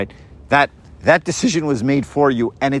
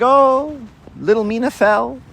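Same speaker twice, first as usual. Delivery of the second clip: mock kids' gasp; 9 semitones higher than usual. Kids exclaiming over fallen toddler.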